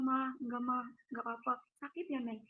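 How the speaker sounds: soft, subdued retold plea; close to tears. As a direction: quietly reassure mum, holding back sadness. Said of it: "Saya kalau ingat-ingat nangis ya".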